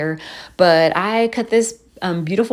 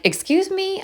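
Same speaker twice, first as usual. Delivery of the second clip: high, incredulous squeak; mock shock; 14 semitones higher than usual. Daughter reacting to mom's question, high mock shock. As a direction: act scandalized.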